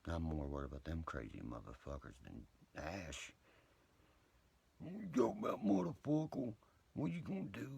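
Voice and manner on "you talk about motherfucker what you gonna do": incredulous challenge. Real, not acted. Mock taunting challenge.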